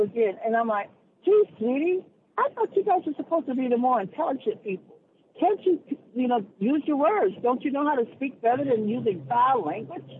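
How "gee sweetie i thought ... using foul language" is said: sugary, high and condescending; mock sweetness. Retold taunt at the cursing woman, mock-sweet and high. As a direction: talk down to her like a child.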